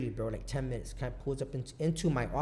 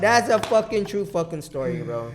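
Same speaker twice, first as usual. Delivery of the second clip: excited; 7 semitones higher, 13 dB louder than usual. Real, not acted. Triumphant ending of his story.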